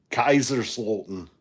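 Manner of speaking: Kaiserslautern again with a mild German accent. Shown as a demonstration. Told to go ahead, he repeats it in German accent. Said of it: "that was my best, uh, German accent".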